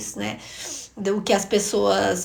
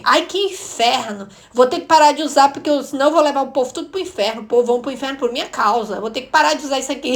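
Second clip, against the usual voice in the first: louder, higher mock-exasperated rant; annoyed outburst; 4 semitones higher, 5 dB louder than usual. Niece reacting to her aunt's reproach, exasperated and half-joking. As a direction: act out a fed-up complaint, tipping into a laugh. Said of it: "Eu comecei a ficar muito brava".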